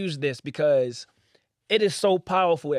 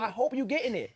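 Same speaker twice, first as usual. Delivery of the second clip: inner thought; 4 semitones higher, 6 dB quieter than usual. Retold or imitated. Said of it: "in my head".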